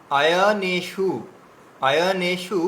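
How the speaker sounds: আয়নেষু with a long drawn "আয়" vowel; careful recitation. Shown as a demonstration. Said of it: "এখানে নেটা হচ্ছে দীর্ঘ আছে".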